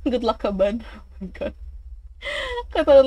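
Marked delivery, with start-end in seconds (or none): 0.9-1.5 jump scare laugh. Real, not acted.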